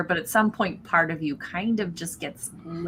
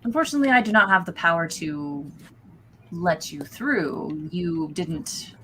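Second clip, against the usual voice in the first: regretful cultist; 3 semitones higher than usual. Acted. GM voices Barden.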